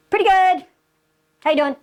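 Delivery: match the caller's upbeat energy; matched upbeat reply. Shown as a demonstration. Salesman answering a cheerful caller, upbeat and lively. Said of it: "Matching that vocal tonality".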